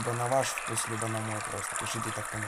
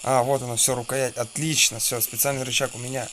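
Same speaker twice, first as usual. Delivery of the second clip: excited; 6 dB louder than usual. Real, not acted. Finds the item in game.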